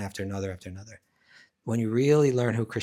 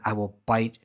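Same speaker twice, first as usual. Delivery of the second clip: louder, emphatic snake threat; mock threat; 8 dB louder than usual. Snake threatens Jotila and her family, mock menacing. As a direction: build in volume through a hammed-up warning.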